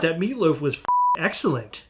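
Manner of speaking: lightly voiced movie supervillain; Doctor Evil. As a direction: trail down into a soft villain's gloat on "excellent". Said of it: "Why are you doing a weird Doctor Evil thing".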